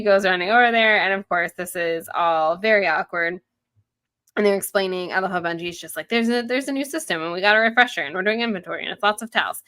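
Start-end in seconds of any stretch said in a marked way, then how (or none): 6.1-9.6 quick, higher-pitched eager run-on; excited rambling. Retold or imitated. Benji explaining the new towel system, excited rambling. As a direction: imitate someone rattling off news with excitement. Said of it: "he's very excited about it".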